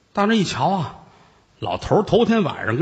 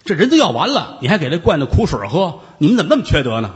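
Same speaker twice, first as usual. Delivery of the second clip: angry; 3 semitones higher than usual. Acted. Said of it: "张世芳急了".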